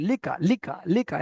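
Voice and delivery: লিকা with both syllables short; short, unstretched syllables. Shown as a demonstration. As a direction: say লিকা briskly, holding neither vowel. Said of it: "লিটা একদম টান দেওয়া যাবে না".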